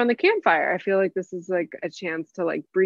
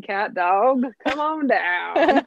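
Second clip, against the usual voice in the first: higher, slow drawn-out call of down; mock game show host; 3 semitones higher, slower than usual. Guest repeating the host intro, drawn-out call. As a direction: echo the host call, stretching it. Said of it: "I love that introduction".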